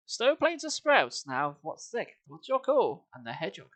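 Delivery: sing-song rhythmic verse reading with a heavy beat; poem recitation. Acted. Streamer reads a bawdy song to chat as rhythmic verse. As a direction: recite the verse with a bouncing meter, fighting back giggles.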